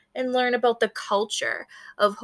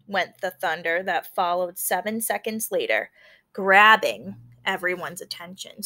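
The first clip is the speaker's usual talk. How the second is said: story narration; 2 semitones lower than usual. A narrator's reading. Teacher reading a picture book to her class, storytelling. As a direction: tell the storm scene to the class.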